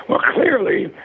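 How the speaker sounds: lightly imitating a French critic's accent; a hint of a pompous French accent. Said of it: "it said with a French accent".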